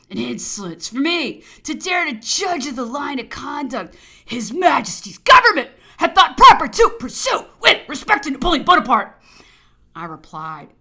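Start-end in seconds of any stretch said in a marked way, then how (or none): 0.1-9.2 high, shouted indignation; indignant outburst. Acted. Governor rebuking the officer for judging the government, indignant shout. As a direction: swell into an outraged shout.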